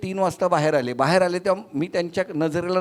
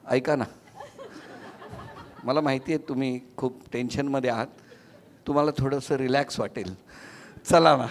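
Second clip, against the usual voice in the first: softer, lower, gently persuasive; soft coaxing; 6 semitones lower, 6 dB quieter than usual. Retold or imitated. Host sweet-talking patients outside the ICU, soft and lower. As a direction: coax the worried patients kindly.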